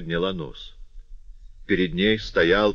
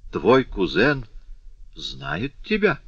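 eager question; 6 semitones higher, slower than usual. A narrator's reading. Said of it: "живо спросила она".

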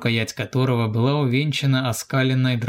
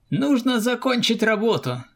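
raised, firm reminder; higher commanding soldier voice; Arkady's voice; 11 semitones higher than usual. A narrator's reading. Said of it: "напомнил Аркадий".

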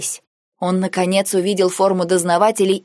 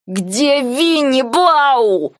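slow, higher, rising anger, spitting out the words; hissed, spitting; 6 semitones higher, 3 dB louder, much slower than usual. A narrator's reading. Nike face in the snow, demanding of Blau, hissed slowly. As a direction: hiss it slowly through spit and snow. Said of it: "прошипел он, отплёвываясь".

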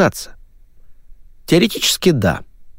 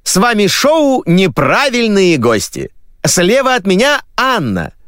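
TV host voice; 12 semitones higher than usual. Acted. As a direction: sell it like a game-show host. Host opening the show.

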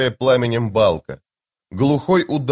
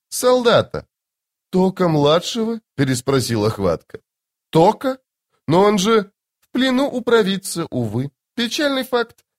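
high, sweetly airy lady's voice; lady in white; 7 semitones higher than usual. Acted. Strange woman asks soldiers about masked warriors, airy and high. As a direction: play the eerie serene beauty, light and high.

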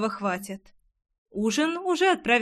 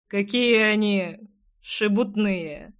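slow drawling necromancer; slower than usual. Acted. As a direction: drag the words out slowly. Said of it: "произнёс некромант".

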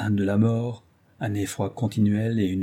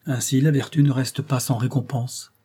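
mock-solemn comic exclaim; 3 semitones higher than usual. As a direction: play it as a grand joke. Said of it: "s'écria Dagobert d'un ton comique". (ton comique et faussement solennel)

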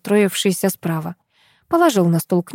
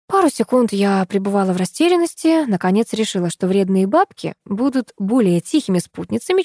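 plain reading voice

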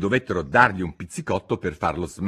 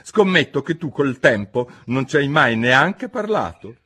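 Hatter; 7 semitones higher, 6 dB louder than usual. Acted. Hatter voiced.

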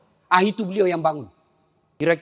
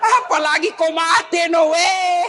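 laughing tease; 7 semitones higher, 5 dB louder, slower than usual. Retold or imitated. Preacher mock-quotes himself teasing wife.

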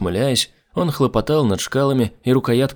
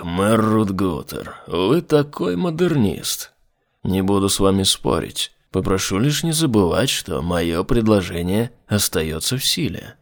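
low demon voice; 2 semitones lower than usual. Acted. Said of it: "приятным низким голосом проговорил демон".

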